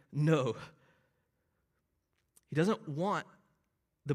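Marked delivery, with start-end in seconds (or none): 0.1-0.6 "No." said with eager, emphatic energy; enthusiastic no. Retold or imitated. Paul rejecting the legalists' claim, eager and emphatic. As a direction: throw real enthusiasm into "No.". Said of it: "yet enthusiastically".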